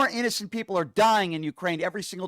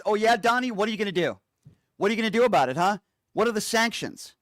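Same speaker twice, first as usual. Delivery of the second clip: taunting; 4 semitones higher than usual. Acted. Taunting Trump as Putin.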